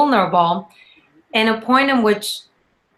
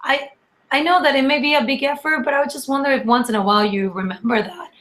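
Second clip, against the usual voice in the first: higher, softened coaxing of a partner; gentle, non-negative request; 4 semitones higher, faster than usual. Acted. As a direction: raise a small complaint kindly, pitched up at first. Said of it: "not really making it in a negative way".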